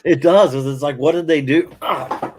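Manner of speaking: pained by a sudden back spasm; having a back spasm. Real, not acted. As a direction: talk through a sharp back twinge. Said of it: "having a back spasm there".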